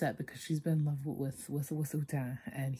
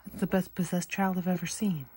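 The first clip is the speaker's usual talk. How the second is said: excited; 4 semitones higher, 3 dB louder than usual. Real, not acted. Gushing at the movie.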